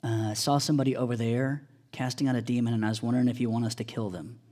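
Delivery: put-on low, soft, fast childlike voice; soft innocent question; mock naive kid. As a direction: play the clueless eager kid. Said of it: "Try to be more like this kid".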